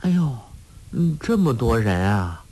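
a hint of childlike surprise; giggly simpleton girl. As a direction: play a mildly amused, simple-minded girl. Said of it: "傻姑笑嘻嘻地走进来了".

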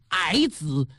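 矮子 set apart and heavily emphasized; heavy stress on 矮子. A narrator's reading. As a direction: lean hard on 矮子 after a pause. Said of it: "逻辑重音加强了".

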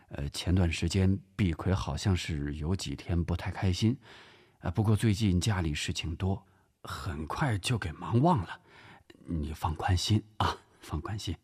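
hesitant, soothing husband; calm an upset guest in an even, lowish voice; mild, fumbling reassurance; awkwardly reassuring. Acted.

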